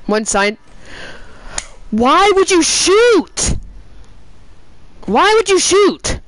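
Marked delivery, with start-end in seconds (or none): 1.9-3.5 exasperated. Real, not acted. Teammate shot, exasperated. 5.0-6.2 exasperated. Real, not acted. Repeats exasperated question.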